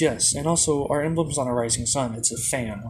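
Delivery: ordinary delivery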